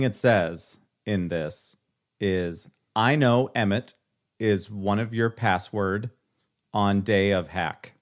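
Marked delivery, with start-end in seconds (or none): 2.9-7.9 scammer voice. Retold or imitated. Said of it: "for people that don't speak scammer".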